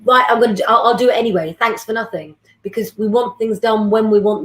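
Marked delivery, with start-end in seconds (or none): 0.0-2.4 impatient huff. Retold or imitated. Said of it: "I'd go".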